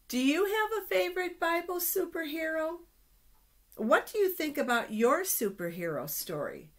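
eager question. Acted. Teacher asking the children, eager and high. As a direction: ask the kids like a cheerful host.

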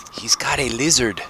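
hushed, confiding stage whisper. Acted. Character hiding behind Tanner confides in Cor, whispering. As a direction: whisper it as a nervous aside. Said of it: "he kinda whispers to Cor".

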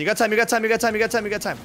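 urgent, high, rapid-fire repeats; freaking out. Real, not acted. Warning a teammate about the time mid-game, freaking out a little. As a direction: call it out in a mild panic. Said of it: "like, freaking out a little bit".

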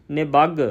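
ਨਿਬੱਗ with a tight, doubled G; pressed doubled consonant. Shown as a demonstration. Teacher demonstrating the adhak, ਨਿਬੱਗ said tightly with doubled G. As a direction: press hard into the end of ਨਿਬੱਗ. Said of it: "ਅਦਕ ਦਾ ਭਾਵ ਹੁੰਦਾ ਕੱਸ ਕੇ ਬੁਲਾਉਣਾ".

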